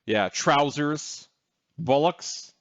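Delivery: slow, lightly put-on British accent; mock British accent. Co-host teasing the British host, mock British accent. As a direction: drawl trousers like a mock British toff. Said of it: "You take that British accent".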